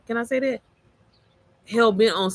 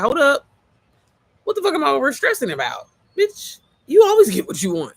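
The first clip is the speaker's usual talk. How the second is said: self pep talk; 7 semitones higher, 4 dB louder than usual. Retold or imitated.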